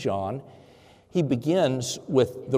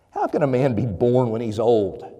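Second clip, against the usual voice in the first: dry, mocking question, first go; a skeptic's dry sarcasm; sarcastic; 3 dB louder than usual. Teacher Nicodemus answering Jesus, with a touch of sarcasm. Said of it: "drips with sarcasm".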